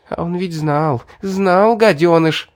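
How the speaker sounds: grind it out through clenched teeth; through gritted teeth. Acted. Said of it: "заскрипела зубами девушка".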